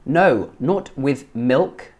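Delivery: slow model, "milk" with a short I. Shown as a demonstration. Teacher correcting a learner's line, slow "milk" with a short I. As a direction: spell it out slowly, "milk" as in "sit". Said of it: "Not mealk".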